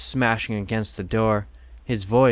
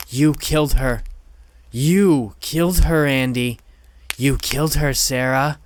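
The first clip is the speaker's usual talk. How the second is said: gloating; 3 semitones higher, 5 dB louder than usual. Acted. Killer gloating at hiding kids.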